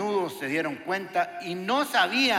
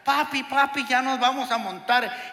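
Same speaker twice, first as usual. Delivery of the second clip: put-on excited kids calling; 6 semitones higher than usual.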